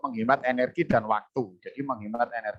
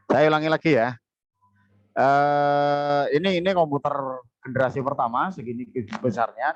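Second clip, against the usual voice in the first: louder; 3 semitones higher, 4 dB louder than usual. Real, not acted. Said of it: "Suaranya kurang keras".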